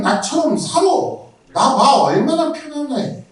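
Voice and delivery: cocky showing-off jeer; mocking boast. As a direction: gloat like a comfortable worldly man. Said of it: "라고 말하는 거예요".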